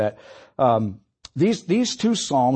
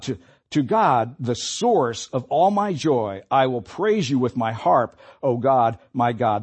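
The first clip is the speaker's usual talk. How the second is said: deliberate, lifted pulpit reading; scripture reading; 3 semitones higher than usual. Acted. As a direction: read it as an appeal to God. Reads the psalm's prayer.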